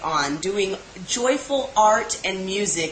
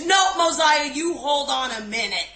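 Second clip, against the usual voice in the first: imitating an upset cousin, higher pitched; mildly hammed-up indignant interruption; mock yelling; 6 semitones higher than usual. Host imitating her cousin wigging out, mock yelling. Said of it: "Tina's wigging out, literally yelling".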